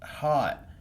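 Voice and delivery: halting, stuttering reader; slow nervous stammer. Acted. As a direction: fight through each word. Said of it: "the words swam around the page".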